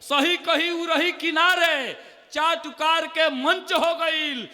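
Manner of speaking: slow recital. Acted. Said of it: "मुक्तक और सुन लीजिए".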